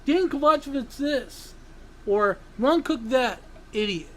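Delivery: toned-down mock complaint, no yelling; restrained rephrasing. Shown as a demonstration. Host rephrasing his outburst after apologizing, restrained. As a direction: redo the insult with the yell held back. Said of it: "apologize and rephrase it this way".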